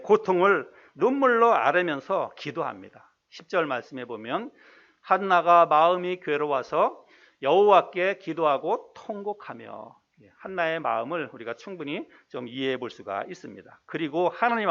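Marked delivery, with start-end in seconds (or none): 5.0-10.0 slow, measured Bible reading; scripture reading. Acted. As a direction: read the verse out slowly and formally. Reads scripture aloud. (느리고 또박또박한 성경 봉독)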